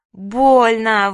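loud pained howl. Acted. Manya to mother pressing ice, loud howl. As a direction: howl the word out in pain. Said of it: "выла Маня".

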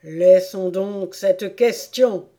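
loud, slow royal decision; deliberate pronouncement from the bench; ruling King. Acted. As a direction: close the matter slowly and firmly. King closes the matter.

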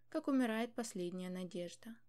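usual speaking voice

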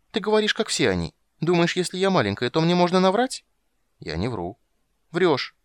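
put-on a girl protesting her betrothal; petulant high young princess; little girl complaining. A narrator's reading. Child Ciri accusing.

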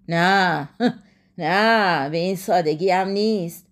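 low-pitched angry refusal with a dry laugh; angry, understated. A narrator's reading. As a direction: refuse with contained anger. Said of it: "همایون خشمناک گفت".

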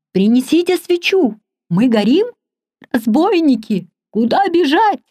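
high, frantic shouts of alarm; panicked cries. A narrator's reading. Frightened guests in the gallery crying out in panic. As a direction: squeal it in panic, running in the dark. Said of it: "Везде слышались возгласы".

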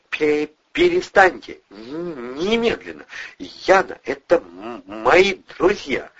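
loud, halting, faltering order; stammering shout. A narrator's reading. Wounded Eddie breaking up the fight, stammering loudly. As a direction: stutter it out forcefully.

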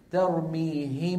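ترميهم ب said slowly, lips closed once on م and ب with nasal hum; very slow tajweed demonstration; ikhfa demo. Shown as a demonstration. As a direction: hum the م of ترميهم straight into ب without opening the lips. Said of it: "في غنة ولا ما في".

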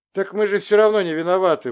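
loud high exclamation; exclaimed. Acted. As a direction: cry out your innocence. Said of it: "воскликнула Евдокия".

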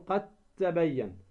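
"قد تبين" corrected to "qat-tabayyan"; merged pronunciation. Shown as a demonstration. Teacher corrects the mistake, merged د into ت. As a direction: hold a doubled t in "قد تبين". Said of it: "فتدغم الدال في التاء".

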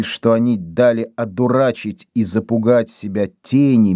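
usual speaking voice

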